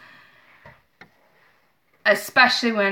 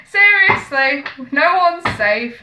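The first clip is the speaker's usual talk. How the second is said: emphatic; 5 semitones higher, 6 dB louder, slower than usual. Real, not acted. Joking emphatic warning.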